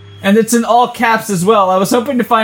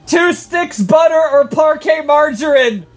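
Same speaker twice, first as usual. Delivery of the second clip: shouted recipe, a bit higher; all caps reading; 5 semitones higher than usual. Shown as a demonstration. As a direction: yell it like all caps text. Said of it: "so I do have to yell it".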